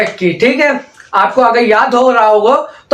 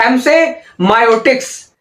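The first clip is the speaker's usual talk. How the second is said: slow repeat drill. Shown as a demonstration. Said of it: "ऐसे बोल दिया".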